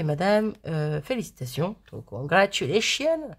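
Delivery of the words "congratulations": English word in a slow French accent. Real, not acted. Vlogger reading the English stamp text, French-accented English. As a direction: say it slowly with a strong French accent. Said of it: "avec mon super accent".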